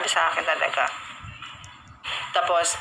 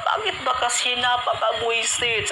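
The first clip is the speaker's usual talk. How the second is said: slow, higher, tearful voice; imitating crying father; 5 semitones higher, slower than usual. Retelling drunk father crying at his gay son, tearful. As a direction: play the drunk father weeping. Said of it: "umiiyak siya".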